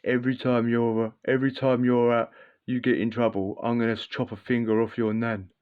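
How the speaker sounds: lightly voiced menacing stepdad; a hint of a bullying stepdad's threat; mock stepdad threat. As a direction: stepdad threatening a kid, mildly imitated. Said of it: "So I'll threaten you".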